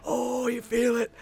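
hyped yelling. Retold or imitated. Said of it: "And I just start yelling".

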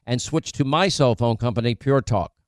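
upbeat host-read commercial pitch. Acted. Host pitching sponsors to listeners, upbeat ad read. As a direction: sell it like a radio spot.

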